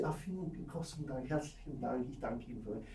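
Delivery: soft, gushing Viennese politeness; over-polite Viennese. Retold or imitated. Teacher mimics Viennese people thanking, softly over-polite. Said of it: "So this is a very too, too, too polite".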